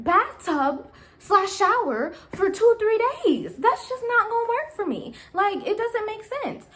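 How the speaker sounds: high, indignant complaint. Retold or imitated. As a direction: protest it, exasperated. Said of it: "I was like".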